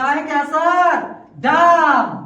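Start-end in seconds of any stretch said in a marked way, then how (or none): 1.4-2.2 "डाम" with a long open "aa"; wrong pronunciation. Shown as a demonstration. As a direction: mispronounce it as "डाम", vowel drawn open. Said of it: "डाम नहीं पढ़ेंगे आज के बाद". ("डाम" वाला गलत उच्चारण, लंबा आ)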